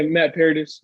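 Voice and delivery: Paradis said as PAIR-dis; name pronunciation. Shown as a demonstration. Co-host helps host say the last name, Paradis as PAIR-dis. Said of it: "Is that how you say his last name?".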